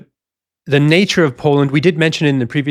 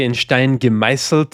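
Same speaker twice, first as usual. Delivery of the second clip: the German phrase "in Stein gemeißelt" in a natural Austrian accent. Real, not acted. Historian quoting a German idiom to his co-host, in an Austrian accent. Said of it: "That was actually Austrian".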